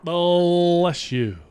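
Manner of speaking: shouting. Real, not acted. Loud bless you.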